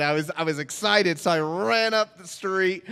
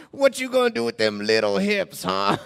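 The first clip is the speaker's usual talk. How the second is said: raised, lightly mocking character voice; teasing homeless man; 4 semitones higher than usual. Homeless man ribbing a teen, teasing character voice. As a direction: taunt him as a streetwise stranger.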